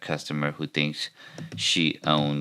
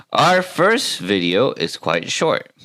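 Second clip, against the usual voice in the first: slightly too in-your-face video intro; raised, slow, punched announcer opening; over-intense host; 6 semitones higher, 4 dB louder, slower than usual. Pretend. YouTuber introducing a reaction segment, pushy presenter voice. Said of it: "give the Alex Jones".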